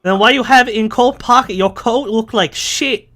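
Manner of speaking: put-on old Asian lady. Old Asian lady criticizing his coat, mock Asian accent. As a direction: scold him in a broken-English Asian accent. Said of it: "it's an old Asian lady".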